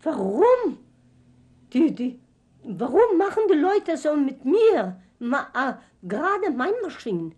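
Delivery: re-living the desperate shout; retold crying out. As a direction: cry out why me in despair. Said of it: "hvor jeg skreg og græd".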